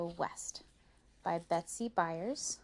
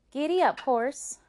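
raised, loud command, less wild; calling to horse; 8 semitones higher, 7 dB louder than usual. Acted. Rose with the reins starting the horse, confident call.

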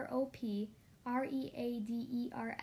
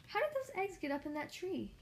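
much higher, lightly voiced little engine; puzzled Thomas; 7 semitones higher than usual. A narrator's reading. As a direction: wonder aloud, confused. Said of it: "he asked".

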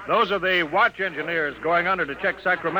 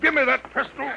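commanding shout; 12 semitones higher, 3 dB louder than usual. Acted. Gaines grabs gun, shouting.

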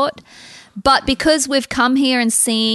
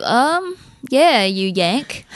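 slow, drawn-out deadpan jab; mock dismissive; much slower than usual. Shop clerks brushing off the chatty Americans, slow deadpan. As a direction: drag out "yeah, you Yank" unimpressed. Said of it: "looking at us like".

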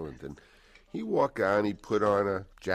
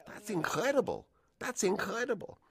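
much higher, amazed exclaim; astounded. Retold or imitated. Stunned studio head watching Brando's transformation, amazed exclaim. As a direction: blurt it out in disbelief. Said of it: "Charlie is just looks astounded".

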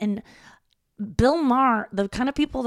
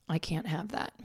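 whispered aside; 2 semitones lower, 7 dB quieter than usual. Real, not acted. Self-pity punchline whispered.

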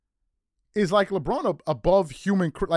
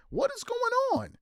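slow disbelief; 3 dB quieter, slower than usual. Real, not acted. Disbelieving rant.

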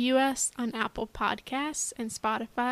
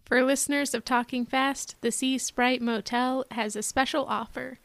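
ad read. Acted. Fake motel ad read.

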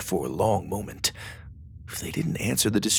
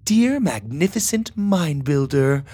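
reading a letter aloud; 7 semitones higher, 4 dB louder, slower than usual. A narrator's reading. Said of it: "she began reading aloud".

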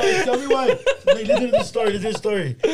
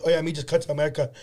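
quick, lower Filipino accent imitation; friend's fake Filipino accent, retold; mock Filipino accent; 4 semitones lower, faster than usual. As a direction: rattle it off in a put-on Filipino accent. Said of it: "he does the accent so well".

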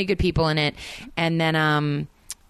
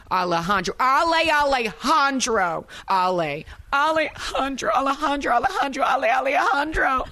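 hammed-up Italian American Jersey accent, pitched higher and building; cheesy dramatic Jersey reading; 5 semitones higher than usual. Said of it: "Okay, cheesy big bad".

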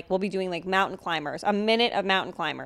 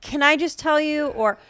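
put-on older man's opener; 6 semitones higher than usual. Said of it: "they'll say something like".

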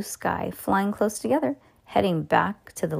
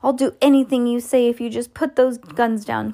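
higher-pitched urgent bargaining; pleading cry; 5 semitones higher, 4 dB louder than usual. A narrator's reading. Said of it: "cried Mister Gregg".

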